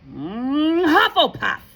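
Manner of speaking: drawn-out high, loud announcement; hum, then cry out the house slowly; shouting hat. Acted. The Sorting Hat announces Hannah's house, shouting slowly. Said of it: "shouted the hat again".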